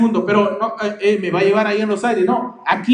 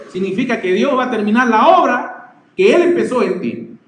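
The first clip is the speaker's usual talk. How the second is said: normal talking voice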